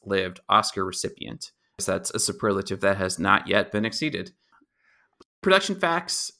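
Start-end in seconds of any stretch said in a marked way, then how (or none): 5.4-6.3 a hushed aside, like a title card; segment whisper. Acted. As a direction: whisper the heading, then back to normal. Announcing a new segment.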